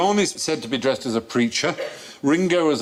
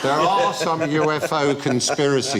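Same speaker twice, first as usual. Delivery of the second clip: conspiracy theorist voice. Acted. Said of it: "Why are you talking like this?".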